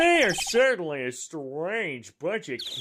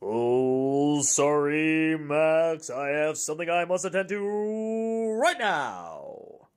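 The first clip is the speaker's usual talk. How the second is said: ringmaster voice with bravado; slower than usual. Shown as a demonstration. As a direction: boom it out like a ringmaster. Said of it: "there you go... a great ringmaster voice".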